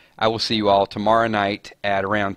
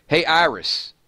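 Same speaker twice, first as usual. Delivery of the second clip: higher-pitched summoning call; pitched-up demo wake phrase; calling a voice assistant; 7 semitones higher, slower than usual. Shown as a demonstration. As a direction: call out to get a voice assistant's attention.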